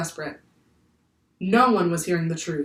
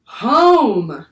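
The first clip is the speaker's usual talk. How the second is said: unbearably sad; 5 semitones higher, 11 dB louder than usual. Acted. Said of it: "unbearably sad, from the heart of the ocean".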